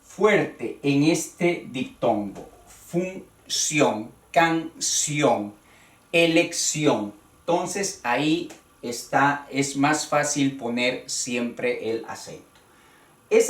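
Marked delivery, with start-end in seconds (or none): 2.7-7.1 Función, canción, elección, each stressed on the last syllable; measured list, landing on the ó of Función, canción, elección; stress on final ción. Shown as a demonstration. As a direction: sound out each ción ending. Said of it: "siempre llevan acento en la O".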